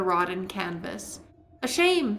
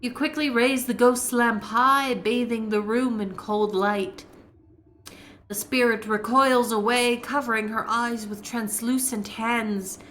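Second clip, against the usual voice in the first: story narration. A narrator's reading. Narrating the wraith's attack for the audience, measured eerie narration. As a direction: set the eerie scene, unhurried.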